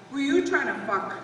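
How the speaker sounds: accusing husband. Acted. Wife quoting her husband's jealous challenge, accusing. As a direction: throw the question out as an accusation.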